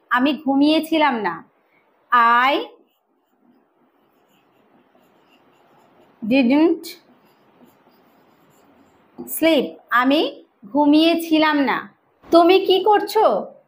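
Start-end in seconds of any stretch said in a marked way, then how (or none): 2.5-9.7 I ... live ... near ... here, each word set apart; slow word-by-word drill. Shown as a demonstration. Teacher drilling a new phrase, slow word by word. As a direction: separate every word with a long pause. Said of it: "teacher drills word by word".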